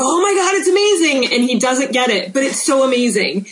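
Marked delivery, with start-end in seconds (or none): 0.0-1.3 mock adoration. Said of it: "I just shake my husband and go".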